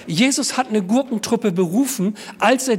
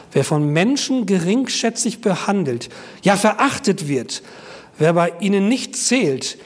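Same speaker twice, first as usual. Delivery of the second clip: scripture reading; 2 semitones lower than usual. Acted. Pastor reads Corinthians to the church, measured and solemn.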